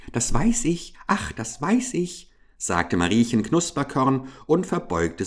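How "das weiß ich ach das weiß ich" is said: high, meek little mouse; timid mouse voice. A narrator's reading. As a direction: squeak it out humbly, like a field mouse. Mouse character voice.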